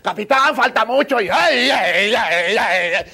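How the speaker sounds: loud high yelps on a bumpy boat; frightened cries. Retold or imitated. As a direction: cry out as the boat bounces. Gritos en la lancha. (gritos asustados en la lancha rápida)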